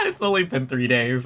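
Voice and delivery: talking through leftover laughter; laughing. Real, not acted. Amused by the fickle townsfolk, speaking through laughter. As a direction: still giggling as the words come.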